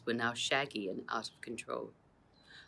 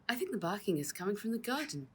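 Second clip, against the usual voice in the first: calling; 7 semitones higher, faster than usual. Acted. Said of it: "she called to Josephine".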